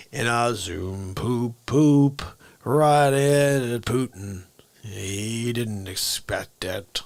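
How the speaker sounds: lightly voiced slow goofy character; silly character voice. A comedian's bit, slow and goofy. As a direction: drawl the potty joke out slowly.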